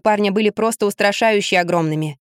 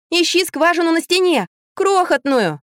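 impatient shout; 8 semitones higher than usual. A narrator's reading. Shouting instructions through wall.

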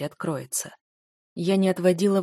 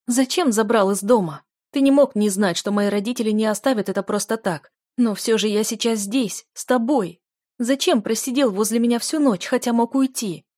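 higher, louder insistence; loud demanding questions; 3 semitones higher, 5 dB louder than usual. Acted. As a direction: push every question at him. Heroine demands answers.

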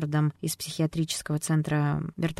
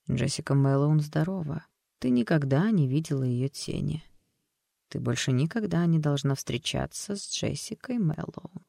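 tender whisper. Acted. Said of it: "Ласково струился шёпот".

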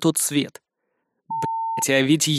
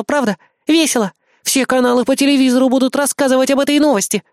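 shrieking with glee; 8 semitones higher than usual. A narrator's reading. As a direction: squeal like an excited brat. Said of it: "и она заверещала".

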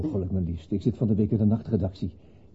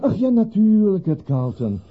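flustered recovery; 9 semitones higher, 7 dB louder than usual. Acted. George caught out by mistake.

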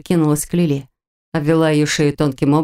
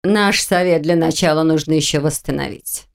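displeased mutter. Acted. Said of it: "недовольно пробормотала обсидиановая ведьма".

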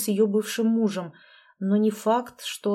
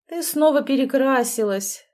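groaning; 5 semitones higher, 4 dB louder than usual. Acted. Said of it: "простонал я".

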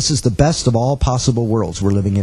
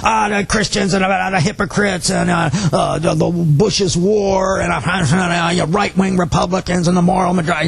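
a lightly voiced tough guy preaching his complaints, higher; mock ranting heckler; 4 semitones higher than usual. Speaker imitating the heckler who kept cutting him off, hint of a rant. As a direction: rattle off his gripes like a mini sermon. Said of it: "interrupt, and start preaching".

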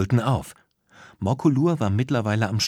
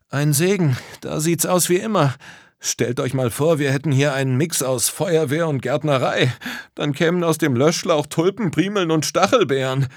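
put-on lively boy; 6 semitones higher, 3 dB louder than usual. A narrator's reading. Tom jokes to his friends.

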